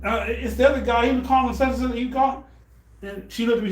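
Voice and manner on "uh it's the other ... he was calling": put-on kids protesting. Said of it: "every kid that was in the bathroom was like".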